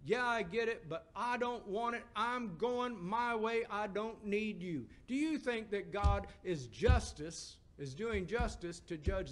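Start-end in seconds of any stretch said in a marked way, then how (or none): 0.0-4.9 defiant refusal. Retold or imitated. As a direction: turn away from God, slow and defiant. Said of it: "that person says".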